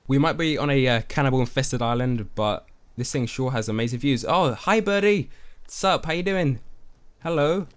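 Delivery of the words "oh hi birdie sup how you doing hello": higher, sing-song hello to a little bird; 1 cutesy bird greeting. Real, not acted. Streamer greets a bird perched by the treehouse, high cooing voice. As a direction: coo up at the birdie like it's a pet.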